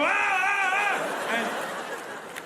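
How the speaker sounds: very high repeated scream, fading off; mock terrified scream. Passenger reacting to carrier landing, hammed-up high scream. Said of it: "And you go".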